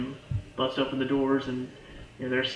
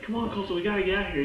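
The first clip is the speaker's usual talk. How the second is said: higher-pitched retold urgency; urgent urging; 6 semitones higher, much faster than usual. Garrett hurrying Coulson out of the compound, acted urgency. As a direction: hurry a companion along, pitched up.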